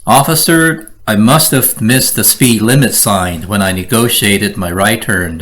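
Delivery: polite, apologetic to the officer; respectful. Shown as a demonstration. Speeder apologising to the officer, respectful and polite. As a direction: humbly admit the mistake. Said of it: "Next, respectful".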